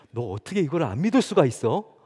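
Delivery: mildly voiced cross father, incredulous; temperamental father. Father to his child about believing, mock temper. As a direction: scold lightly, imitating an exasperated parent. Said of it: "막 이렇게 성질을 부리는 아버지들".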